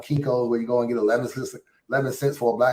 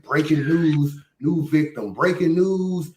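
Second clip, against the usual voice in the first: hammed-up breaking news announcer; mock news anchor; 5 semitones higher, slower than usual. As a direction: announce it like a tabloid newsflash. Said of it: "all this breaking news that Battle Truth used to do".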